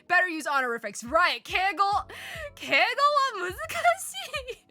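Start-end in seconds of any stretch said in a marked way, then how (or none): 2.5-4.7 said through laughter, high; laughing. Real, not acted. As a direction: giggle the words out. Laughing at own joke.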